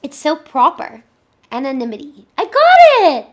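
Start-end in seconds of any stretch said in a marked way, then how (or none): 2.4-3.3 loud, high laughing victory cry; laughing triumph. Real, not acted. Streamer finally saying the word, laughing with joy.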